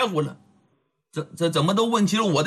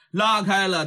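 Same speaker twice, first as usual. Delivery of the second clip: ordinary delivery, nothing marked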